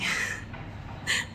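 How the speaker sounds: soft, breath-only chuckle; quiet laugh at her own slip; laughing at herself. Real, not acted. Vlogger amused by her own forgetfulness, laughing at herself. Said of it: "मुझे खुद पे हंसी आ रही".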